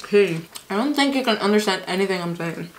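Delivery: chewing while talking; talking through salad bite; mouth full. Real, not acted. Seen 1: forkful taken at -3; talks while chewing, says unintelligible.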